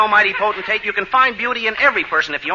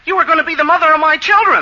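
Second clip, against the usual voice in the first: desperate shout; 6 semitones higher than usual. Acted. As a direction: shout it in despair. Lovesick man pleading with Betty.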